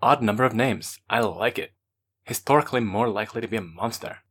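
light lisp on the s sounds. Acted. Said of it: "pre-punctuating his lispy reply".

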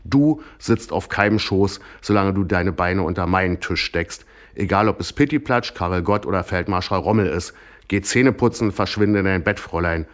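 mother telling off her daughter; stern scolding. Acted. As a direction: lay down the rules to a cheeky daughter. Mother scolds daughter after slapping.

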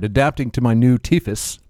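mangle "teeth" into "tethys" through new dentures; "my new tethys" with a dentured slur; lisped teeth. Real, not acted. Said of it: "Your new tethys?".

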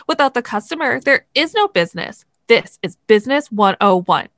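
indignant, precise, lecturing read; an upset reader scolding the moderator. Acted. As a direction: read it out stiff and offended. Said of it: "co-hosts are wonderful voice actors".

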